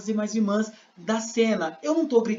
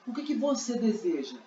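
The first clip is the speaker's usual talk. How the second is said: Jesus asking. Acted. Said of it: "Jesus perguntou".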